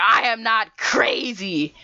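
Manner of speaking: high, slow, insistent mock protest; indignant protest. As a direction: draw out each word in mock outrage. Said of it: "a crazy woman who's screaming".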